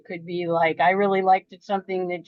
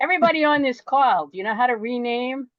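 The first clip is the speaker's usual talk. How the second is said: wise guy announcement; 5 semitones higher than usual. Acted. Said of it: "So I'll be a wise guy".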